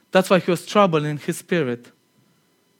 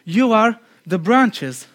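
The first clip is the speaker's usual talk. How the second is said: slow emphatic quote; 2 semitones higher, much slower than usual. Shown as a demonstration. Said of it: "He says".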